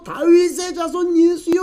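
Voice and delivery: high, drawn-out desperate call; pleading cry. Retold or imitated. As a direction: plead in a strained, held-back cry. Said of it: "더 간절히 큰 소리로".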